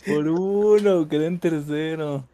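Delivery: laughing lament. Real, not acted. Laments losing by one point.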